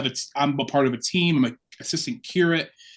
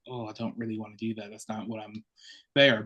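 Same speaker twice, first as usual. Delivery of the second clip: mock teen reluctance, much softer and fast; reluctant mumble; 3 semitones lower, 7 dB quieter than usual. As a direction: mumble it away like an unwilling fourteen-year-old. Reluctant teen self quoted.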